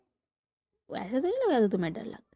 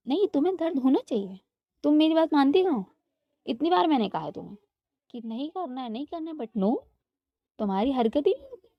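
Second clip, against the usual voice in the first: scolding mother; 5 semitones higher than usual. Acted. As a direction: scold your disobedient daughter hard. Mom scolds daughter, twisting her ear. (माँ बेटी को ऊँची, ज़ोरदार आवाज़ में डाँटती है)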